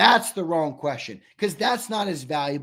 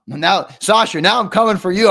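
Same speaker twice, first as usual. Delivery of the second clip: playful call-out; 3 semitones higher, 7 dB louder than usual. Real, not acted. Playfully calling out a chat commenter.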